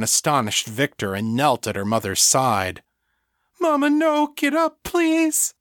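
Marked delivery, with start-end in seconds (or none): 3.6-5.5 high, frantic begging; desperate pleading. A narrator's reading. Fiona kneeling by her dead mother, high desperate plea.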